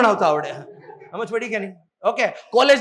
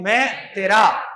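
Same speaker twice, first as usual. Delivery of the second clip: slow mnemonic; 2 semitones lower, much slower than usual. Shown as a demonstration. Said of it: "કોના પરથી યાદ રાખવાનું".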